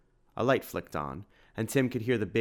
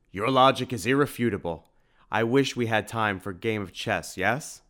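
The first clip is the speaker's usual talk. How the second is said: a hint of a big jovial man, louder; lightly voiced shopkeeper; 3 semitones higher, 5 dB louder than usual. Edward grins at Simon, a touch of hearty warmth. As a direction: beam at an old friend.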